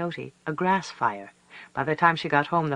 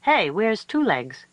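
coyote pups calling; 6 semitones higher, slower than usual. A narrator's reading. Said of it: "Her pups said".

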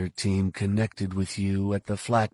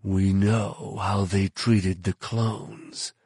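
slow, jaw-tight restrained anger; through clenched teeth; much slower than usual. Acted. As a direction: hold the fury behind clenched teeth. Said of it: "speaking through clenched teeth".

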